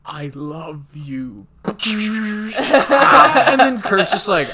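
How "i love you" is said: dying apology. Retold or imitated. Acted dying apology to Kirk.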